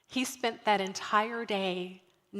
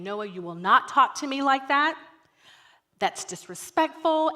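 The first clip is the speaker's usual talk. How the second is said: raised-voice scolding, imitating oneself; stern parent; 4 semitones higher, 5 dB louder than usual. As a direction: lay down the law like a parent. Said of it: "I do that parent thing".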